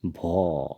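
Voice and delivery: long drawn-out "भो"; Assamese pronunciation. Shown as a demonstration. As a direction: say "भो" with a rounded o vowel, held. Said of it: "असमिया में इसको हम कहेंगे".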